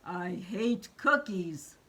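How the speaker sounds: slow, grouchy grumble; lightly voiced storybook grouch; Oscar the Grouch. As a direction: drag out the grouch's complaint. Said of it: "what does Oscar the Grouch say".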